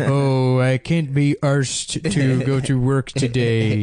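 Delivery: American nerd putting on British slang; slow, mocking fake-British drawl. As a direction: drag out the British slang in a bad accent. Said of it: "guy from America that".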